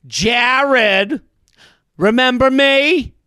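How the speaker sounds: aggressive greeting. Retold or imitated. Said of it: "such an aggressive way".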